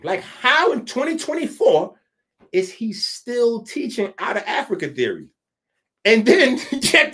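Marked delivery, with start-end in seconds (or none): 0.0-5.3 raised, higher exasperated challenge; exasperated demand. Acted. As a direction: push him for an answer, fed up. Asks the same question again, louder.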